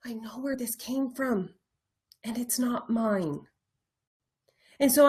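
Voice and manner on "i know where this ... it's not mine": softly acknowledging it to yourself; quiet realisation. Acted. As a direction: say it inwardly, gently dropped in volume. Models quiet realisation to oneself.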